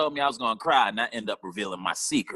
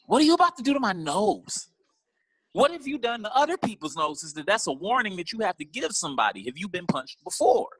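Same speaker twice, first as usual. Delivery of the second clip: mock panic; 9 semitones higher than usual. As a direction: squeal the questions in alarm. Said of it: "I was like".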